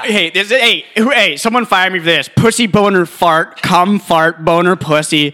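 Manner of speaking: high, loud defiant shouting. Real, not acted. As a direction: yell rude words to get fired. Shouting swear words to provoke.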